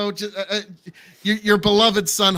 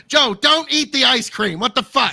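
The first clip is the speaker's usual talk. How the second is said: mock alarm; 4 semitones higher, 5 dB louder than usual. Host stops guest eating ice cream.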